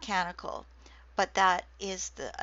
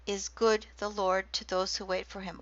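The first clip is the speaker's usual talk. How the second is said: word-for-word line with good and Lord stressed; Hebrew stresses shown. Shown as a demonstration. Lecturer showing kina meter stresses to class, stressed words marked. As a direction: hit the stressed words of the lament. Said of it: "the three stresses are".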